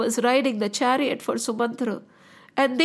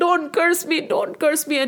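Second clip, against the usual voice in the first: raving plea, higher voice; shouting like madman; 5 semitones higher than usual. Acted. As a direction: repeat the plea in mild hysteria. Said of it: "shouting like a madman".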